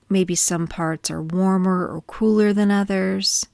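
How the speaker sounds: gentle body-scan guidance with long pauses; calm, measured meditation voice; guided meditation. Acted. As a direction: ease listeners into stillness, leaving space between phrases.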